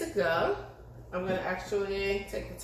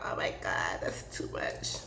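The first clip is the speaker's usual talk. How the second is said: hushed mock gasp of shock; whispered quote; 13 semitones lower, 6 dB quieter than usual. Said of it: "Some people are probably like".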